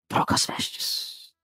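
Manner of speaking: usual speaking voice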